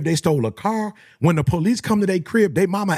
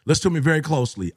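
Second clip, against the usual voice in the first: urgent repeat; faster than usual. Real, not acted. Speaker repeating his warning to men, fast and firm. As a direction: hammer it home quickly. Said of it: "This is to all my men".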